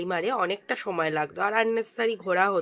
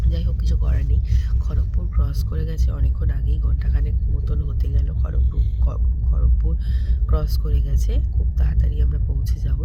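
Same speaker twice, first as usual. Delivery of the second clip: speaking softly. Real, not acted. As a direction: keep it down so nobody sleeping nearby wakes. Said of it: "আমি এখনো আস্তে আস্তে কথা বলছি". (ঘুমন্ত লোকের পাশে আস্তে, চাপা গলায়)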